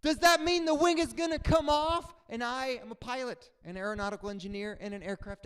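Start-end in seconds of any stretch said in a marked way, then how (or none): 0.0-2.1 high, loud fearful question; scared question. Retold or imitated. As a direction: ask in fear about the wing. Scared passenger asks.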